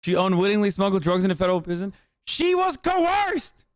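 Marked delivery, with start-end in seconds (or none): 2.3-3.6 a high, very slow defense; mock dramatic plea. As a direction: stretch it out in hammed-up outrage. Defending Peggy Hill dramatically.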